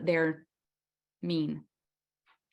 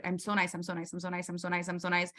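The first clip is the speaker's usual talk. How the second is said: softer repeated insistence on being nice; overgiving; 3 semitones lower, 5 dB quieter, faster than usual. Retold or imitated. Making up for an outburst by overgiving, softly repeating. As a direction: soothe it over, quietly. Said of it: "Overgiving, making up for it".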